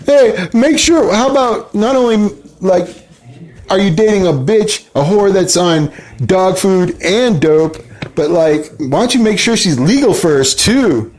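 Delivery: high, slow mocking woman's voice; mimicking a caller. Host mimics a woman caller ranting, high and mocking. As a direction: parody her rant, pitched high and drawn out. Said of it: "She was like".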